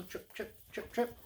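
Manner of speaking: soft, percussive little trips; hushed pitter-patter; tiny hoof steps. Acted. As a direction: imitate tiny hooves tapping lightly. Tiny hooves imitated.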